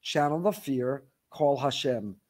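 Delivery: slow, low and gentle; a hint of the Rebbe's calm voice; calm advice. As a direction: recall the Rebbe's calm words. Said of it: "the Gerer Rebbe's voice".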